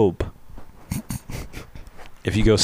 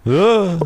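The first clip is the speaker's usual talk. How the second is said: alarmed gasp; 8 semitones higher than usual. Retold or imitated. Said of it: "She'd be alarmed".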